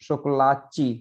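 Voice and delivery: शोकोलाची with the Brazilian chi ending; Brazilian pronunciation. Shown as a demonstration. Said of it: "Brazilian वगैरह के संपर्क में".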